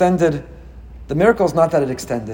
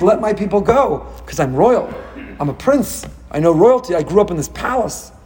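demanding; 5 semitones higher than usual. Retold or imitated. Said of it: "he bangs on the door and he demands".

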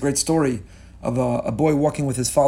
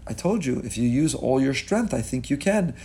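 patient father; 2 semitones lower, 4 dB quieter than usual. Acted. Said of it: "He said".

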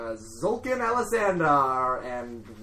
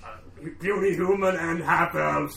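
slow booming orc war chief; slower than usual. Acted. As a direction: roar it like a brutish orc. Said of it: "and that sounds like he's like".

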